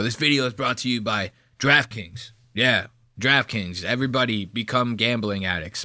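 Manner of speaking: low, deadpan, quick-running ad read; mock sponsor read. Host parodying a Barstool DraftKings ad, low deadpan plug. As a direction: deliver a tongue-in-cheek sponsor plug.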